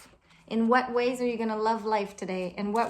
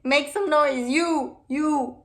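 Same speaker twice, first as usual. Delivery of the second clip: calling out; 3 semitones higher, 6 dB louder than usual. Real, not acted. Calling out to the audience.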